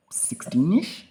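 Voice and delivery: breathy whispered time. Retold or imitated. Answering when he'll be free, whispered. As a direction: whisper it like a sheepish guess.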